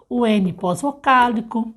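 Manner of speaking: normal talking voice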